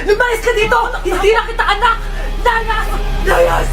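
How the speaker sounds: furious. Acted. Mother throws daughter out.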